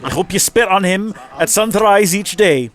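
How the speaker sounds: high, sneering bully reading his own letter; scornful Viking letter voice. Acted. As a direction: read it like a proud, mocking Viking thug. Reads rival's letter in a voice.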